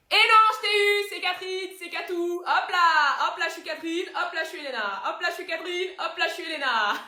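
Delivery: high, singsong gloating with loud bursts; gleeful taunting. Acted. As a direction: tease gleefully as you switch identities. Catherine se moque après sa ruse.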